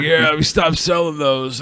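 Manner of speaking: slow imitation of a store clerk; Jake the Snake Roberts. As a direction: drag it out like a wrestler turned shop clerk. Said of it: "sounds like Jake".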